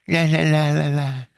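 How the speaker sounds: put-on high, chirpy sing-song girl voice; girl in his head. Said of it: "She's talking".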